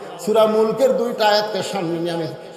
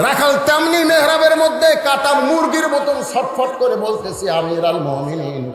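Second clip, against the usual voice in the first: melodic preaching; slower than usual. Acted. Preacher reveals Omar to the shepherd, melodic preaching. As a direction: swell from solemn to impassioned.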